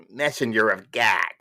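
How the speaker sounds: mock announcer-style delivery; Dan Aykroyd. Storyteller repeating the chapter title, imitating a comic actor. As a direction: punch out the title as an impression. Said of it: "as Dan Aykroyd would say".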